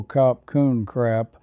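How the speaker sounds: slow Thai thank-you in an American drawl; beginner's Thai, American accent; butchered Thai. Shown as a demonstration. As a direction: sound out the Thai slowly with a West Virginia drawl. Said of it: "started butchering my few words out loud".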